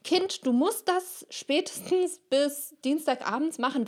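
high, scolding strict-teacher voice. Acted. Teacher scolding a pupil about a deadline, in a high stern voice. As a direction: wag a finger like a mean old teacher. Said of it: "böse Lehrerin".

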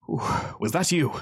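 slow, puzzled question without anger; confused, not angry. Acted. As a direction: ask it slowly, bewildered. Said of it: "Not angry, confused".

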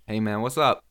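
American accent. Shown as a demonstration. Mate takes his turn at the challenge, American accent. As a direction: try on a casual American accent. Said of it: "you fucking try it".

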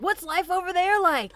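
high-pitched keen question; playful, wide-eyed interest; eager curiosity. Acted. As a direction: ask it like an enthralled newcomer. Acted eager question to foreigners.

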